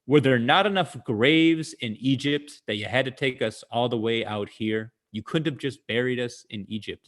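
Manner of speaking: hammed-up complaint to Moses, fading at the end; sarcastic. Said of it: "It's a very sarcastic comment".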